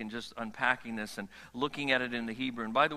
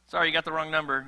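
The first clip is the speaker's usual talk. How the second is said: louder, laughing brush-off; mock loud apology; 2 semitones higher, 6 dB louder, faster than usual. God telling Moses he got a wrong number, loud and laughing. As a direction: shout the sorry through a laugh.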